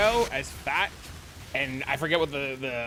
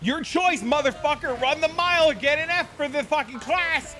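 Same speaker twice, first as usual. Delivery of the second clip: imitating gym teacher; 10 semitones higher than usual. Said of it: "And he's like".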